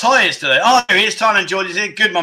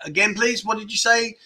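polite; 4 semitones higher, 4 dB quieter than usual. Retold or imitated. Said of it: "a polite way of saying".

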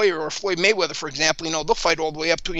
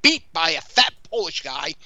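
lightly mimicked ring announcer; a hint of the fight announcer's grand introduction; mock ring introduction, only lightly put on; Michael Buffer. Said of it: "thinking like in his Mi-, Michael Buffer voice".

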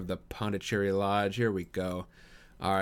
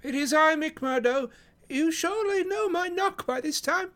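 very high-pitched, fussy little gentleman; Thaddeus Sholto; 4 dB louder than usual. Acted. Guest answering the porter at the door, high-pitched character voice. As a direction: pitch it right up, mildly put out.

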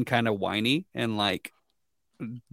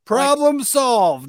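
sarcastic; 12 semitones higher, 5 dB louder, slower than usual. Real, not acted. Sarcastic punchline.

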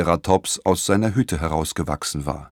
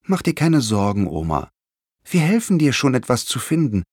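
put-on mildly comforting child's voice; gentle storybook reassurance; consoling; 5 semitones higher than usual. A narrator's reading. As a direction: reassure an upset grandmother, lightly acted. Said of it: "sie zu trösten".

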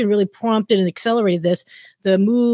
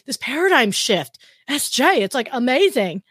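put-on valley girl; 4 semitones higher than usual. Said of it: "I could do all the Valley Girl talk".

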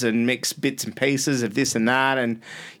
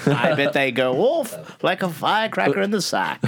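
yesteryear announcer voice; 5 semitones higher than usual. Pretend. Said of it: "that really yesteryear voice".

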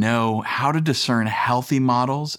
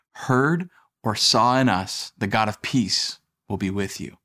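scripture reading. Acted. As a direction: read it like a solemn letter. Reads scripture aloud.

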